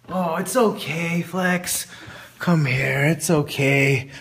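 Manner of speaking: low, slow soothing words; calm him gently; comforting. Acted. Comforting crying Flex.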